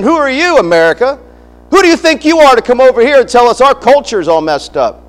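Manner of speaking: high, indignant mock protest; indignant challenge. Ukrainian protesters confronting America, imitated indignation. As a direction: challenge them like an affronted local.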